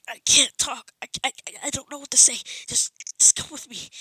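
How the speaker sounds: a hint of panicked babbling; flustered. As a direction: trip over words in a rush. Deku flustered before All Might.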